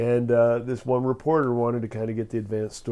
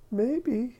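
put-on high, hesitant old-lady voice; a coy, high-pitched maybe; little old lady; 12 semitones higher than usual. Little old lady wavering at the reporter's request, high and coy. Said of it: "this little old lady answers".

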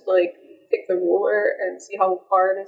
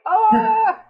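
sudden high startled scream; mock scream; 13 semitones higher, 4 dB louder than usual. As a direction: yelp in fake terror. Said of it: "and I'm like".

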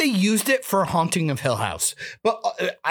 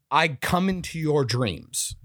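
quoting villain; 3 semitones lower, slower than usual. Retold or imitated. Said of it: "This guy literally says".

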